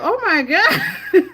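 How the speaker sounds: slow, loud, laughing oh my God; laughing disbelief. Retold or imitated. Reacting to viewers, slow and laughing. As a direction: drag it out while laughing. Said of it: "I was like".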